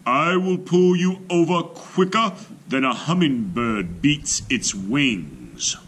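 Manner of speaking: high, loud bragging elephant; booming boast. A narrator's reading. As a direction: brag he'll win in a flash.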